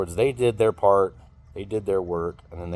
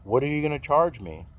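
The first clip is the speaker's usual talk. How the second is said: rising, indignant disbelief at the price; retelling a friend's outraged surprise; incredulous friend; 6 semitones higher than usual. Retold or imitated. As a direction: mimic his shocked whine, climbing higher. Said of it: "I can hear it in his voice".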